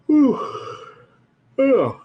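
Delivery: interrupted by hiccups; hiccuping. Real, not acted. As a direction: talk through a hiccup fit. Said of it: "I got the hiccups this morning".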